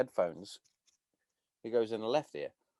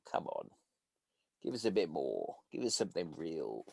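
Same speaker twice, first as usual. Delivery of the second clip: mock bored plea; 8 semitones lower, 10 dB quieter than usual. Mocking bored trainees at medic course.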